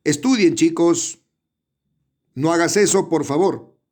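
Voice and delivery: teacher modeling a command for the class, lightly pleading. Shown as a demonstration. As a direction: urge the students, half command, half request. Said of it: "vamos a dar mandato, un ruego".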